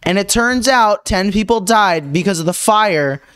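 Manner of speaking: mock news anchor read over music; news reporter voice.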